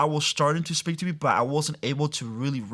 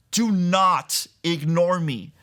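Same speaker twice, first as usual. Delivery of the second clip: mild mock scream; 4 semitones higher, 3 dB louder, slower than usual. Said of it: "this voice scream at me".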